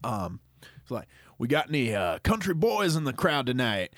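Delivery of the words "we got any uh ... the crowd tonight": lightly voiced country singer working the crowd; a hint of country stage banter. Country singer asking the crowd for boys, playful stage call. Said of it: "I'm the country singer now".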